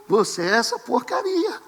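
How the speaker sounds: a hint of a condemning preacher; lightly voiced scornful pastor; mocking harsh pastor. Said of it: "O pastor fala pra você".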